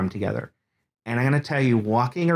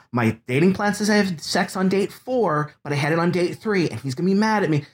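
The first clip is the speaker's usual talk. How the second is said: nervous confession; 5 semitones higher than usual. Retold or imitated. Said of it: "I was afraid 'cause I was gonna tell him".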